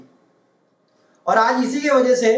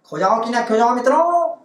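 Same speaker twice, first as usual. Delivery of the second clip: Modi impression; 2 semitones higher than usual. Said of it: "Modi साहब".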